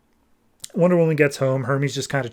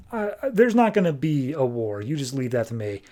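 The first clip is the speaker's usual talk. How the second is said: Apollo, mildly ominous. Acted. Apollo promises there will be no war, mildly ominous. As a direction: assure them with a touch of veiled threat. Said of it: "says it very ominously".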